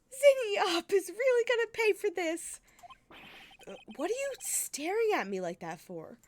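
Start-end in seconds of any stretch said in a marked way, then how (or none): 0.1-2.6 higher, louder vengeful threat; angry threat. Acted. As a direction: vow revenge in a raised voice. Angry threat after groan.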